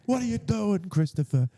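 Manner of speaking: high-pitched Sopranos Italian-American; Sopranos accent. Acted. Podcaster quoting The Sopranos, in a high mobster accent. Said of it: "like, from The Sopranos".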